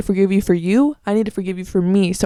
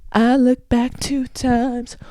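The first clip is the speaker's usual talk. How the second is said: mocking the wrong take; 3 semitones higher, much slower than usual. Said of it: "people go left and then they go right".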